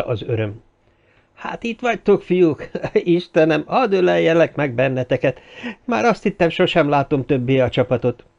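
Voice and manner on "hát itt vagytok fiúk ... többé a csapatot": magasabb hangon, örömmel; örömteli üdvözlés. Acted. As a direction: ujjongva köszöntsd a barátokat. Joyful reunion, Tilford greets friends. (Tilford a barátait üdvözli: boldog, magas hang)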